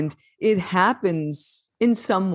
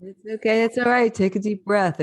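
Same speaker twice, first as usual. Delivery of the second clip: higher comforting voice, settling back down; reassuring; 6 semitones higher than usual. Real, not acted. Host telling a tearful guest to breathe, reassuring.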